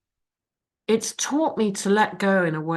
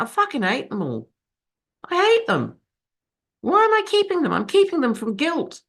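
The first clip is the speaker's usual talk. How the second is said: reliving anger; 8 semitones higher than usual. Retold or imitated. Deciding to get rid of things.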